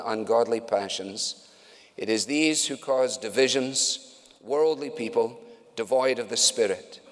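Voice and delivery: a preacher's unhurried public reading of Jude; scripture reading. Acted. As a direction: read each verse deliberately, weighty. Reads scripture aloud.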